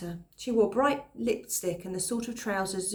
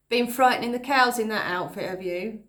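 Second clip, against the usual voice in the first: calling out; 3 semitones higher, 6 dB louder than usual. Acted. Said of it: "the boy called out".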